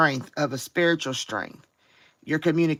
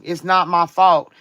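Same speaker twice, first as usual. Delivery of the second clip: louder, slow, insistent; firm declaration; 6 dB louder than usual. Shown as a demonstration. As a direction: say it as a firm vow to yourself. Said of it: "you have to tell yourself".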